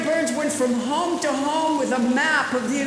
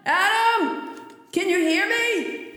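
big hall echo; 5 semitones higher, slower than usual. Pretend. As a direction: shout it like you're echoing in a cave. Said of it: "You sound very echoey".

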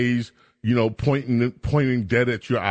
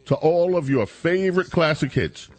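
upbeat ad read over music; punchy radio giveaway announcer; radio contest promo. Acted.

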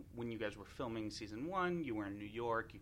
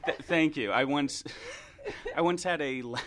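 talking through giggles; laughing; 5 semitones higher, 8 dB louder than usual. Real, not acted. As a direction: laugh breaking into the words. Host laughing at the compliment.

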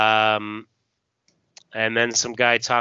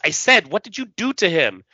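angry bartender; 8 semitones higher, 4 dB louder than usual. Acted. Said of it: "the bartender says".

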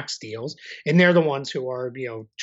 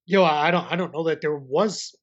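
hiccuping mid-sentence; hiccups. Real, not acted. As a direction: speak through hiccups. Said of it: "I'm having the hiccups".

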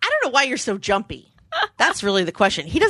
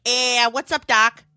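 lightly done cartoon rabbit voice with a drawn-out "eh"; hint at the wisecracking cartoon rabbit; Bugs Bunny; slower than usual. Shown as a demonstration. Co-host coaching pronunciation, light cartoon impression. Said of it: "pretend you're Bugs Bunny".

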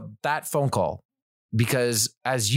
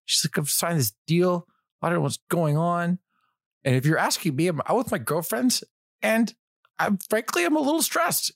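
high-pitched imitation of her worried side of a call; higher mock-stressed voice; retold stressed woman; 6 semitones higher than usual. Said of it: "She goes".

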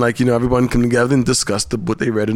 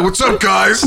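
upbeat online host voice; vlogger greeting; 5 semitones higher, slower than usual. Retold or imitated. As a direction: greet the camera brightly. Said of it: "teach her like".

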